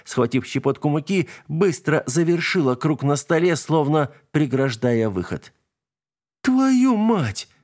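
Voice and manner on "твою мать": much higher, startled exclamation; stunned curse. A narrator's reading. Stas seeing the invisible thing dragged, stunned curse. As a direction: blurt it out in shock. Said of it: "ошалело проговорил Стас".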